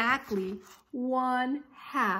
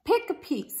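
higher, louder call to the crowd; shout; 9 semitones higher, 5 dB louder than usual. Acted. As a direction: call out to all the gators, loud. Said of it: "he shouted".

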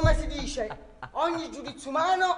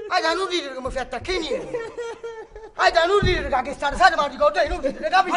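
scolding; 4 dB louder than usual. Acted. Scolding Aida for laughing.

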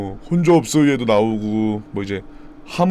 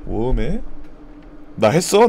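ordinary delivery

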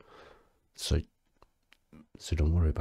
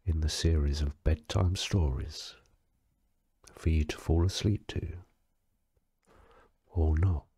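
deadpan bedtime reading; bedtime story narration. Acted. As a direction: read it like a bedtime story, with pauses. Reads a mock bedtime book.

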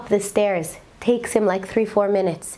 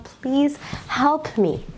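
slow, slightly raised plea; pleading; 4 semitones higher, much slower than usual. Retold or imitated. Discouraged collector begs God for help, pleading.

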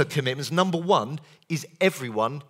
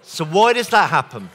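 laughing; 9 dB louder than usual. Real, not acted.

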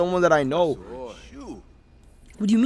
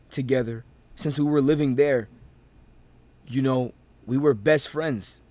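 mock sincere; 4 semitones lower, 3 dB quieter than usual. Diego's soft heartfelt confession.

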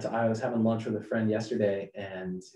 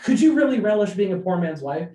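Hamilton's doubt; 9 semitones higher, 8 dB louder than usual. Retold or imitated. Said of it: "he's saying".

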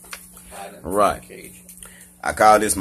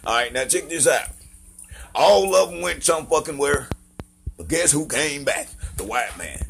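higher-pitched Southern joke-telling voice; pitched-up Southern performance; 5 semitones higher than usual. Acted. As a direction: put on a high Southern twang to tell a joke. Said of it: "I might do a voice".

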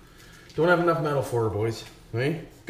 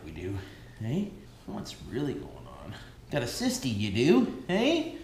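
talking to a dog; 4 semitones lower, 5 dB quieter than usual. Real, not acted. Man talking to his dog.

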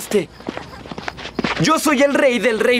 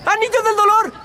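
villain cry; 10 semitones higher than usual. Acted. Villain raises the ring.

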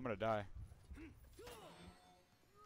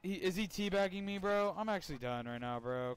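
loud, high exasperated yelling; frustrated shouting; 9 semitones higher, 6 dB louder than usual. Real, not acted. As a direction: shout in disbelief at the enemy. Being teabagged, frustrated.

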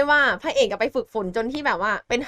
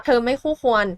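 acted rejection. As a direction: draw it out like a cool brush-off. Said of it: "ก็เลยปฏิเสธสั้นๆว่า".

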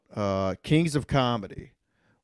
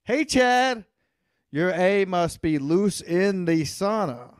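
mock heckle; 3 semitones higher, slower than usual. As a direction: yell it like a heckler in the stands. Heckling a viewer in chat.

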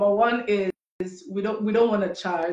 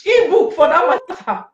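much higher and louder, indignant; mock indignation; 7 semitones higher, 7 dB louder than usual. Real, not acted. Hosts mock paying for an ebook, indignant. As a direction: scoff at the idea.

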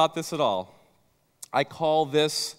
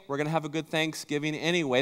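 softer, quick, lightly reassuring wife; lightly voiced wife, consoling; 4 dB quieter, faster than usual. Wife after the turkey blunder, gently reassuring. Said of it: "hear your wife say".

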